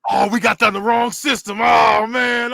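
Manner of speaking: mock dismay. Son reacting to games for the wrong system, mock dismay. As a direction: groan it out for the story.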